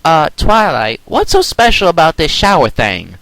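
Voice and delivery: high, slightly different Applejack voice. A narrator's reading. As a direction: ask it curiously.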